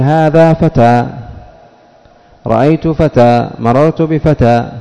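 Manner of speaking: slowly, each فتى drawn out to its final a; slow example reading. Shown as a demonstration. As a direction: read the examples slow and clear for students. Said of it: "تقول". (قراءة بطيئة واضحة للأمثلة)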